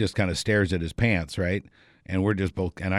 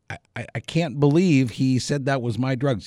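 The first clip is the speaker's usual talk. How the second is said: stammering, higher-pitched mock dismay; aghast disbelief; 6 semitones higher than usual. Comedian blamed for the drugs, aghast. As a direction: imitate a flustered man who feels betrayed.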